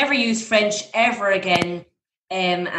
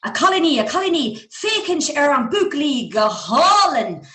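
put-on calling the girls; 5 semitones higher than usual. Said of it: "And I was like".

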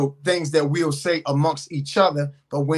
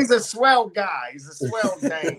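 slow, drawled black-and-white film tough guy; old movie gangster. Retold or imitated. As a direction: lean on swell like a forties hood. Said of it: "That's the old gangster".

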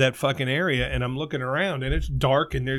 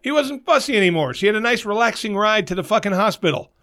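indignant; 5 semitones higher than usual. Real, not acted. Indignant rant continues.

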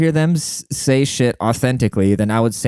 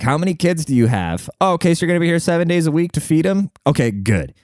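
higher, brisk scheming boss voice; greedy boss; 6 semitones higher than usual. Pretend. Boss quizzing a job applicant, in a quick scheming voice. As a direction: play the factory boss sizing up a hire. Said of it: "ask people at the interview, like".

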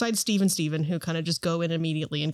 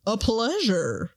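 wrong voice for dwarf; 3 semitones higher, much slower than usual. Acted. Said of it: "he's like".

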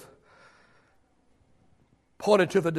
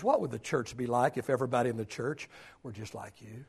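low, soft and lower; hushed question; 7 semitones lower, 11 dB quieter than usual. Shown as a demonstration. Preacher posing a hard question to the church, hushed. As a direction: ask it almost under breath. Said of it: "And the question is".

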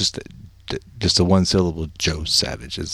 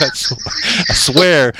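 higher, louder retold protest; insistent protest; 8 semitones higher, 4 dB louder, much slower than usual. Caller swears to the official his name's not Worm, insistent. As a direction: re-enact protesting your innocence.

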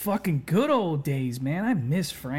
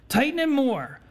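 a higher, harder mock yell; louder mock yell; 7 semitones higher than usual. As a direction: push the repeated order up a notch. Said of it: "he's fucking yelling at him".

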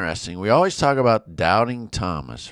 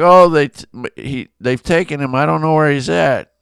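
higher, louder mock lament; half-acted distraught outburst; retold distress; 6 semitones higher, 6 dB louder than usual. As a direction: act out a mourner's upset lightly. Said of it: "Mary's outside weeping".

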